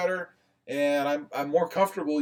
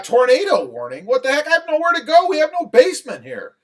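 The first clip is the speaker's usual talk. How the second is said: retold panic; 6 semitones higher, 4 dB louder than usual. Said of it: "I'm like".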